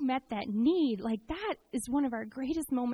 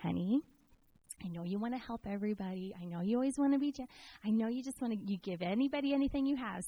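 Jeff; 5 dB quieter than usual. Retold or imitated. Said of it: "sometimes Jeff will go like".

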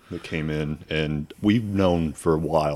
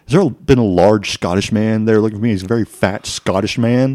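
lightly put-on eccentric customer; a touch of a loud, odd caller; crazy woman caller; 5 dB louder than usual. Clerk imitating crazy woman asking for Scottish man, lightly voiced. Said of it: "recognize her voice and the way she talks".

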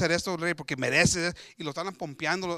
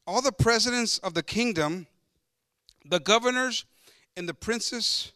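slow, measured Bible reading aloud; deliberate pulpit reading; scripture reading; 2 semitones higher, slower than usual. Acted. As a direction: read the verse out formally, phrase by phrase.

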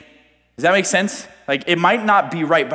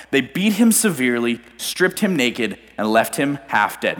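measured Bible reading voice; scripture reading. Acted. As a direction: read the passage like a sermon text. Reads Bible passage.

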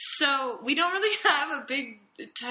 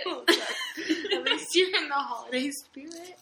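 lips stuck behind a mask; talking through a face mask; 6 semitones higher than usual. Real, not acted. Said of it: "You're talking really funny, like, the way you're moving your lips".

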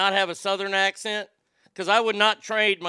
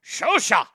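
"shosha" with a punchy, bouncing inflection; inflected Japanese word; 5 semitones higher, 6 dB louder than usual. Shown as a demonstration. Host reads out the Japanese word of the day, inflected "shosha". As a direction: punch "shosha" like an authoritative announcement. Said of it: "That's inflection right there".

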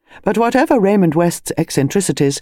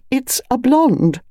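much higher, slow emphatic lady; excited lady voice; 9 semitones higher, slower than usual. Acted. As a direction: savour the word blonde. Mrs Bantry excited.

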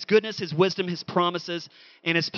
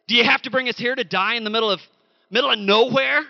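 higher, louder mocking grumble; sarcastic complaint; 3 semitones higher, 4 dB louder than usual. Preacher voices Israelites sneering at Moses, sarcastic and whiny. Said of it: "they sarcastically said".

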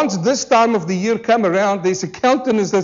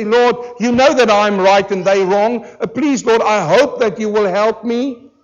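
mock prayer. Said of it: "they pray and they say".

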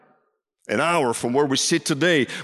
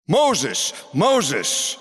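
mildly raised voice calling a name, falling tone; crying out; 3 semitones higher than usual. Retold or imitated. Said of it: "the voice cried out from the burning bush".

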